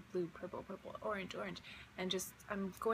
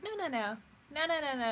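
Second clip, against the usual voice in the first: rising, louder string of no's; insistent no; 6 semitones higher, 4 dB louder than usual. Retold or imitated. To the dream figure, refusing to be bored, insistent no's. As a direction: push back on the boredom.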